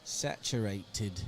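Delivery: put-on goofy New Orleans accent. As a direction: drag the word out in a joking New Orleans accent. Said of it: "saying these with an accent".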